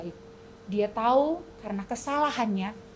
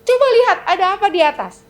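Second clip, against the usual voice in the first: quick, louder command; king's order; 7 semitones higher, 8 dB louder, faster than usual. Acted. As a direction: order them to look up. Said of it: "Lalu kata si raja". (perintah raja yang cepat)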